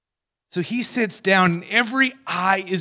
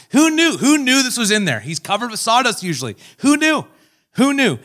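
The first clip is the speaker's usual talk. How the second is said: amazed; 6 semitones higher, 5 dB louder than usual. Retold or imitated. Townsfolk amazed at Jesus.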